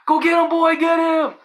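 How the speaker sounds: high, loud egging on of a dog; imitated scream, urging the dog on; Dohop screaming. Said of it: "I heard Dohop screaming".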